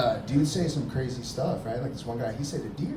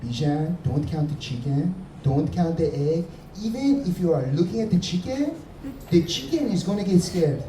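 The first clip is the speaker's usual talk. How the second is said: put-on Persian dad accent; 4 semitones higher than usual. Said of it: "My dad was a little bit different. He was like".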